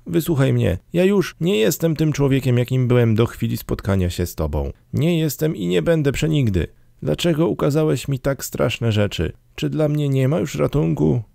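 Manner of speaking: high-pitched, urgent pleading; desperate Scrooge. A narrator's reading. Scrooge begs the ghost to hear him, desperate high plea. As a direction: plead high and insistently, without shouting.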